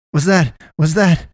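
high-pitched, stuttered false starts; startled stutter. A narrator's reading. Naomi in the fleeing car after something tumbles off, alarmed stutter. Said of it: "Naomi stuttered".

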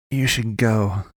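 slow, deliberate warning; slowly pronounced. A narrator's reading. Wounded man warning the boy, pronouncing slowly. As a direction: draw each word out at an even pitch. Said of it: "but slowly pronounced".

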